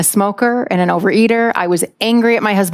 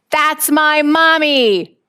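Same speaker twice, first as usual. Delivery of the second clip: put-on toddler voice; 6 semitones higher, much slower than usual. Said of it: "He's saying".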